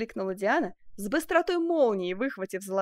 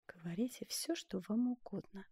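through gritted teeth; 10 dB quieter than usual. A narrator's reading. Duchess to the sculptor, grudging, teeth clenched. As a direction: force the words out through teeth. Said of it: "процедила она сквозь зубы".

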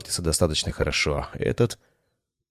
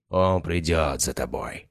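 hoarse croak; slower than usual. Acted. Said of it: "прохрипел Мортис".

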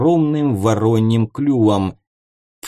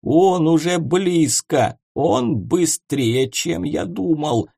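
frightened mumbling; 6 semitones higher, slower than usual. Acted. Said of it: "забормотал Ворон".

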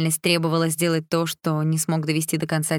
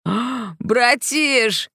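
high squealing burst, louder; shrill squeal; 7 semitones higher, 4 dB louder, much slower than usual. A narrator's reading. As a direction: yelp it out high. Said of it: "визгливо вырвалось у Лаки".

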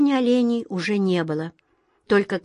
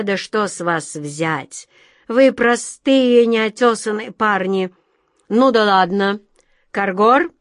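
mocking king; 4 dB louder than usual. King mocks captured brothers.

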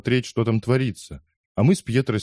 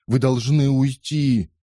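slow pleading; pleading request; 4 semitones higher, slower than usual. A narrator's reading. Narrator to the old man: slow pleading. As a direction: beg him gently but firmly. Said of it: "просил я".

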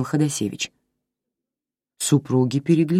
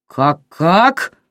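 louder, enraged; furious; 3 semitones higher, 6 dB louder than usual. A narrator's reading. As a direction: snap the question in rage. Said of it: "разъярился Иван". (громче, в ярости)

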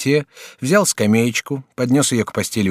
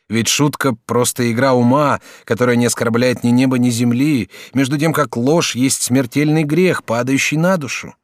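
lightly raised student voice; young student Jacques; 3 semitones higher, 3 dB louder than usual. Acted. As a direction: play the courteous young student. Student admonishes.

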